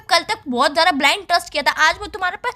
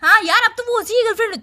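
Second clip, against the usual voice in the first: mocking laugh; 4 semitones higher than usual. Real, not acted. Girlfriend mocking his excuse.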